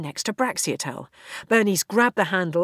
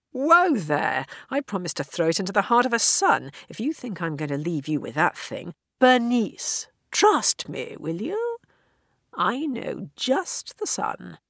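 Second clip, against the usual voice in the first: playful protest; 3 semitones higher than usual. Acted. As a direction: wave off her worry with a grin. Playful protest, then reassurance.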